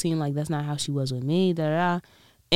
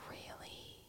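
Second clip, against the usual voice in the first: whispered disbelief; 28 dB quieter than usual. Retold or imitated. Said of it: "I'm like".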